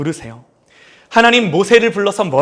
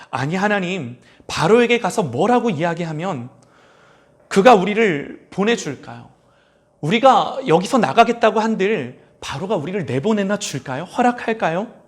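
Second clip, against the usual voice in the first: incredulous Moses. Pretend. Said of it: "모세가 하도 어이없어서".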